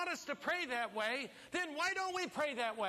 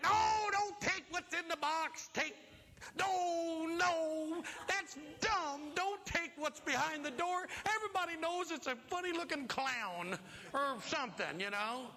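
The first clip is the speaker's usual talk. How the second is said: higher mock shouting at the TV; mother-in-law yelling; 5 semitones higher than usual. Mother-in-law yelling at the game show, mock shout. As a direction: yell advice at the screen. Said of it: "I'm sure she said".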